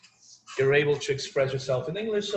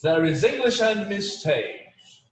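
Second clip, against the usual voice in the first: mock stern; 4 semitones higher, slower than usual. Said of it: "I'm kidding".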